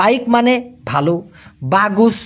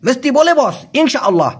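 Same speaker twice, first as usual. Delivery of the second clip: half-hearted; 5 semitones higher than usual. Shown as a demonstration. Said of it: "ঠাটায় বলবে না".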